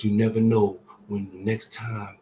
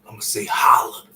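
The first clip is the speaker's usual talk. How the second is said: emphatic; 6 dB louder than usual. Real, not acted. Correcting himself emphatically.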